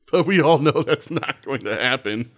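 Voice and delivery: sarcasm with a laugh in it; mockingly knowing, half-laughing; sarcastic. Real, not acted. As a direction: say it as if stating the obvious, sarcastically. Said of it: "I was sarcastic".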